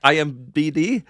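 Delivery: giggling through the letters; laughing. Real, not acted. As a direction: laugh while reading it out. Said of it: "when you hear yourself sometimes on your headset".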